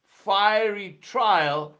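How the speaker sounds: fiery trial drawn out slowly; a slow weighty fiery trial; slow stress on trial. Acted. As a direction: lean on trial and stretch both words. Preacher repeats key phrase.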